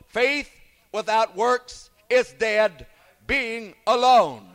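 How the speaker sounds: measured, solemn Bible reading, slowing at the end; scripture reading. Acted. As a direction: read the verses like old King James scripture. Reads scripture passage aloud.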